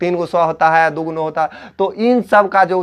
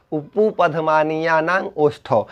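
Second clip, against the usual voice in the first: उपुपधमानीयानांग ओष्ठौ said slowly, softer; slow recitation; 3 dB quieter than usual. Shown as a demonstration. Teacher repeats the sutra slowly for students. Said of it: "teacher repeats sutra slowly".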